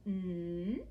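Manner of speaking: held "mm" for the n; isolated sound. Shown as a demonstration. Teacher gives nap's first sound, "mm" held long. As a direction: sustain "mm" on its own. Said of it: "The first sound".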